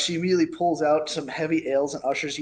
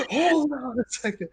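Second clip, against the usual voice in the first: gruff, raised pitch; 8 semitones higher than usual. Acted. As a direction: bark it out gruffly. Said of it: "a very familiar gruff voice".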